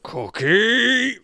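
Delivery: loud high call; shouting a name. Pretend. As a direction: call her name out sharply. Yelling at the cook to cook.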